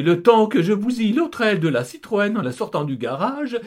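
breezy, reckless driver wife; wife's voice. Acted. Wife to family about leaving, high loud voice. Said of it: "reprend Kitry".

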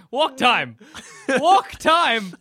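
dog in a human body begging for a walk, excited; excited repeating. Pretend. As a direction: chant it like an eager dog. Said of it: "You just keep saying walk time".

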